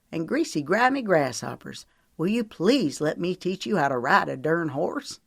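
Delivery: lightly played Southern drawl; playful hint of Southern accent. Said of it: "slipped into his southern drawl".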